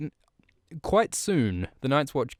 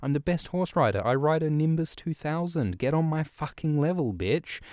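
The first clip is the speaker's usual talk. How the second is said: higher, cocky brag; bragging Jon; 6 semitones higher than usual. Retold or imitated. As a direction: crank up the bragging. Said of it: "Jon's like".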